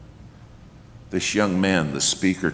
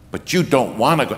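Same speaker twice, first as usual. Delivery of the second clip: building preacher's call, getting louder; raised preaching voice; 3 semitones higher, 6 dB louder than usual. Retold or imitated. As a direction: start pushing the altar call. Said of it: "he keeps raising his voice".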